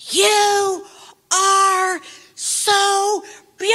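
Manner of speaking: high-pitched retold yell across the street; imitating a man calling out joyfully, a bit high; mock yell. Man shouting after her as she jogs away, imitated high yell. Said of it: "yelled at the top of his lungs".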